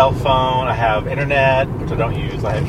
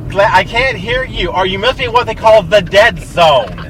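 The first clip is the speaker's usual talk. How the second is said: put-on high, loud old lady on the phone; 4 semitones higher, 4 dB louder than usual. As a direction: ham up the fussy old lady. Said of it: "'Cause I'm an old lady".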